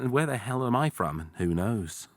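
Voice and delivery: American trying an English accent. Shown as a demonstration. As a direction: slip into a mock southern English accent. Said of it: "instantly you do an English accent".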